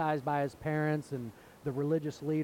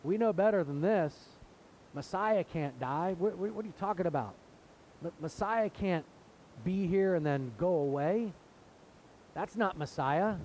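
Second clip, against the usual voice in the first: mock indignant objection; 3 semitones higher than usual. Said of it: "they said".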